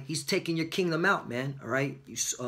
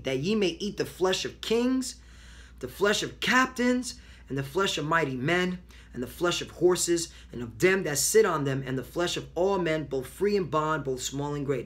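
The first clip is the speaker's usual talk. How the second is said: scripture reading. Acted. Reads scripture, rising in pitch.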